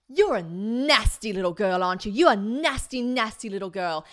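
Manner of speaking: mock British man's scolding, loud on the insults; British accent. British man insults young woman in bar, scolding British accent. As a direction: imitate a disgusted British man, leaning on each insult. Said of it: "This British man".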